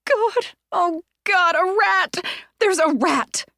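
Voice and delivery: high, loud, slow panicked cry; terrified cry. Acted. Terrified woman crying out about the rat. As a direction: shriek it out in horror.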